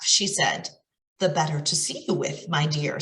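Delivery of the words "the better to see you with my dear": a wolf hiding inside a granny voice; grandma voice. Acted. Wolf answers the girl in a mild grandma voice. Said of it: "in a voice like her grandmother's".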